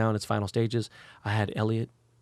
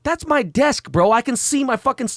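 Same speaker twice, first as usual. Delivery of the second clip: retold outrage; 11 semitones higher, 6 dB louder than usual. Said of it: "I was like".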